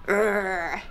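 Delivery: low playful dog growl; silly growl. Pretend. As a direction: growl like a dog, just for fun. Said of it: "That was a silly growl".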